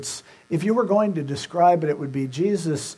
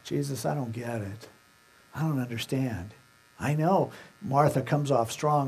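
understated weeping, voiced without sobs; tearful pleading; 4 dB quieter than usual. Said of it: "She was weeping and crying".

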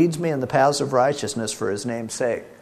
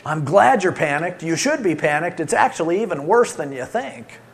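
mock alarm; 2 semitones higher, 3 dB louder than usual. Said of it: "is your role to say".

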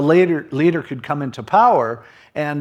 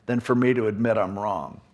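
proud defiance; 4 dB louder than usual. Retold or imitated. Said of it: "It's like".

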